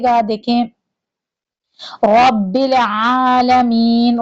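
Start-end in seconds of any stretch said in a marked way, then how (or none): 2.0-4.2 رب with a full, heavy rolled ra, slow. Shown as a demonstration. Teacher showing students the heavy ra in رب. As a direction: say رب العالمین with a thick ra from the mouth. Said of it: "را کو آپ موٹا پڑھیں گے".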